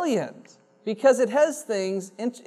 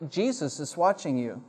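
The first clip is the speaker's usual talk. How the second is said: very quiet; 3 semitones lower, 7 dB quieter than usual. Acted. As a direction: say it barely above a breath. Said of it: "very quietly".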